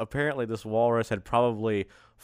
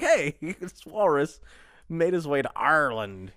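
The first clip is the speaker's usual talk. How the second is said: put-on Irish accent; 3 semitones higher than usual. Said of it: "Did you just say Ireland like a pirate?".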